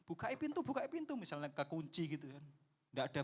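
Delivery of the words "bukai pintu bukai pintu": high, raised call at a locked door; urgent higher shout through the door; yelling to open up. Retold or imitated. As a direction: bang on the door and yell. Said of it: "atau bengok-bengok".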